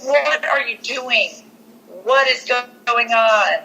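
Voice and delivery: half-voiced imitation of a screaming mom; mock mild scream. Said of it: "she's, like, kinda screaming at him".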